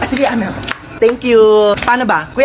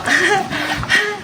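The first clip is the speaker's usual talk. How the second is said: staged candid laugh for a photo; softer put-on chuckle; pretend laugh; 5 semitones higher, 5 dB quieter than usual. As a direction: fake a light laugh, posing for the camera. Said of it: "ano, tumatawa".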